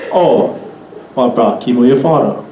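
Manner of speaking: "father" falling at the end; Pidgin question intonation. Shown as a demonstration. Teacher turning the example into Pidgin, falling on "father". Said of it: "another one of these".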